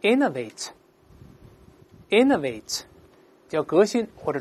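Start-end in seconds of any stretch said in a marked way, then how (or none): 0.0-2.8 slow, deliberate word drill; read-aloud model. Shown as a demonstration. Teacher leading students through the verb form, read-aloud model. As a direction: pronounce it slowly for repeating, pausing between takes. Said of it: "大声先读一下".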